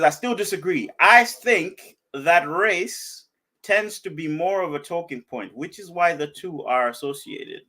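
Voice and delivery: reading aloud. Acted. Host reading Fatson's disagreement to listeners, slow read-out. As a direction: read the comment out in drawn-out phrases. Reads a viewer's comment aloud.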